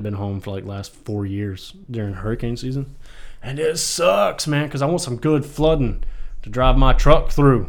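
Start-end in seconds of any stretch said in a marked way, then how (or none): 3.4-7.7 loud, slow, higher gushing; excited. Real, not acted. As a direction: relish every word. Excited about storms, drawn out.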